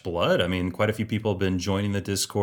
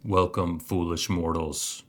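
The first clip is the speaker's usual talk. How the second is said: dark lord; slower than usual. Acted. Spooky host greeting, new segment.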